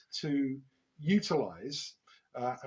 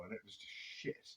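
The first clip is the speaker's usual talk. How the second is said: muttered aside; 4 semitones lower, 13 dB quieter, faster than usual. Real, not acted. Embarrassed aside on his playing.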